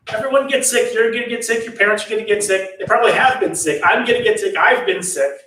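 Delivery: high, quick retold list; emphatic insistence. Channa tells the upset prince about illness, emphatically matter-of-fact. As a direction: reel off every person as plainly obvious.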